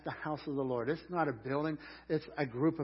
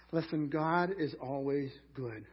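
slow emphatic; slower than usual. Shown as a demonstration. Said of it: "Would you say that with me?".

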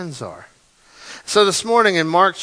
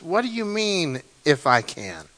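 softer, a touch of disbelief, the pitch falling steeply at the end; Jesus incredulous; 4 dB quieter than usual. Acted. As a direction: ask it gently, surprised at the doubt. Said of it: "twenty-three says".

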